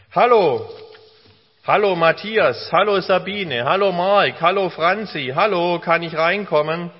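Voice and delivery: loud friendly call; calling through the door. Acted. Jesus knocks and calls the children by name, loud friendly calling. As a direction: call out to people behind a closed door.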